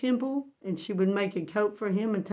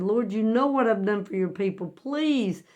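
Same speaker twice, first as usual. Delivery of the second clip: tearful plea; 2 semitones higher than usual. Retold or imitated. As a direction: plead for mercy, stretching the last words, without real sobs. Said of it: "started crying".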